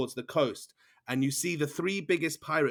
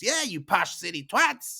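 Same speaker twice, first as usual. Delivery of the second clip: higher jeer, lightly voiced; jeering twin; 7 semitones higher than usual. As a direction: echo the other twin's insult. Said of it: "Bombino goes".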